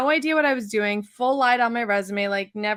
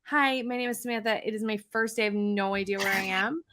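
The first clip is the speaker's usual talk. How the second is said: mock meek reply; 5 dB quieter, faster than usual. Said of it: "And I was like".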